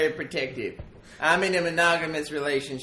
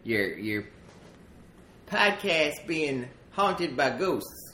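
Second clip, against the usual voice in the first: coal miner character voice; 2 semitones higher, 4 dB louder than usual. Acted.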